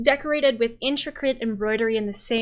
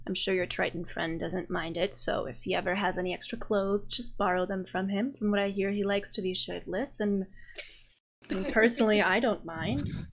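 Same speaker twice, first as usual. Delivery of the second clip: lightly voiced Raphael, amused; 4 dB quieter than usual. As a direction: lightly play an unhurried, teasing confidant.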